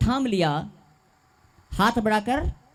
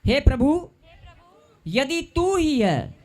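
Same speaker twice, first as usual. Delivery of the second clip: slow, drawn-out words for the congregation to repeat; slow call-and-repeat; 4 semitones higher, slower than usual. Shown as a demonstration. Preacher leading the congregation line by line, slow and drawn out. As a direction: say it slowly so all can follow. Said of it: "मेरे पीछे बोलो".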